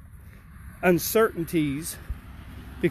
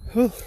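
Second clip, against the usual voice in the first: winded exhale; 4 semitones higher, 5 dB louder than usual. Real, not acted. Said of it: "so if I'm out of breath".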